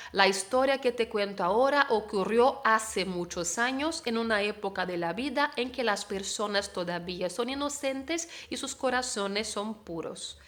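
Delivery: Latin American reading, Z and C of corazones said as S; Latin American accent. Shown as a demonstration. Teacher reading the sentence for students in a Latin American accent, Z and C as S. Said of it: "Si vamos a pronunciar como en América".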